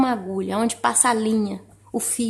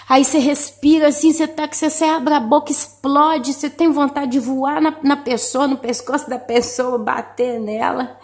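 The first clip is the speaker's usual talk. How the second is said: mock rising fury; 3 semitones higher, 4 dB louder than usual. Acting out rising anger.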